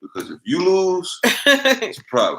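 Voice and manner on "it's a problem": high squeak. Real, not acted. Joking warning.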